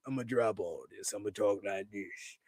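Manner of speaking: a hint of a low, soft mock normal voice; imitating dropped accent. Wrestler dropping his fake Italian accent, lightly mocked. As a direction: lightly play the wrestler ditching his gimmick. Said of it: "That would be hilarious if he'd be like".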